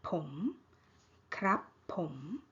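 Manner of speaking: KRAP short, then POM rising. Shown as a demonstration. Teacher repeating male speakers' particle, rising tone. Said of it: "rising tone".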